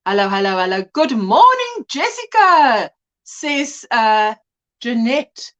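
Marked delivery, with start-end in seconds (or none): 0.1-0.8 teasing impression. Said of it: "I just like to pull her leg". 0.9-2.9 teasing impression. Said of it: "I just like to pull her leg".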